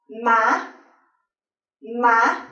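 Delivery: "ma" short, climbing sharply at the end; short high rising tone. Shown as a demonstration. Teacher showing thanh sắc, short and rising. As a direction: make "ma" brief and lift it high. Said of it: "high rising tone".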